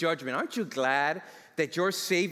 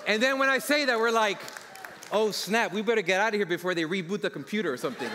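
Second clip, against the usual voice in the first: excited; 2 semitones higher than usual. Real, not acted. Retold joyful escape.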